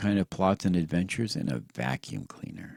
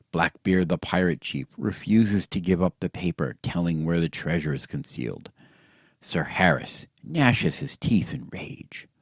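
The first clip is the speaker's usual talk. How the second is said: movie title card. Pretend. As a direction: read it like a silent-film caption. Photoplay title card parody.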